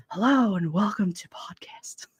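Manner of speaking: soft breathy mock podcast host whisper; whispered podcast intro. Testing her mic alone, whispering a mock podcast intro. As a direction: hush it like a fake podcast opening.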